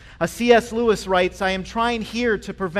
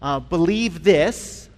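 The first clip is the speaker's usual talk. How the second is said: mock pastoral hedging; slower than usual. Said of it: "I responded very pastorally".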